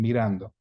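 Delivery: mirando stressed as mi-RAN-do; original stress. Shown as a demonstration. Teacher shows the pronunciation to keep, mirando stressed on RAN. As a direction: put the weight on RAN in mirando. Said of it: "It's pronounced the same".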